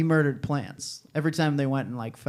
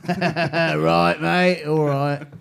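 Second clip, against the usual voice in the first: put-on Mancunian accent; much slower than usual. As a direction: say it like a cheeky Mancunian. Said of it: "my character work".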